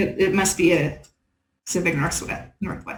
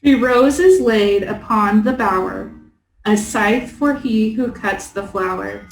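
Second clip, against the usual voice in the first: slow, measured verse recital; poem reading; slower than usual. Acted. Player reads a puzzle poem aloud, measured recital. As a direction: read the riddle out line by line.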